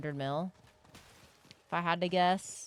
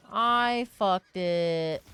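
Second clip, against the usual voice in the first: frustrated groan; 7 dB louder, much slower than usual. Real, not acted. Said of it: "I fucked it again".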